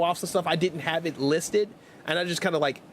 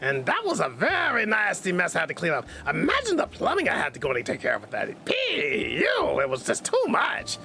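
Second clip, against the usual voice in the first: Doofenshmirtz voice. Acted. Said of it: "I start talking like, uh, Doofenshmirtz".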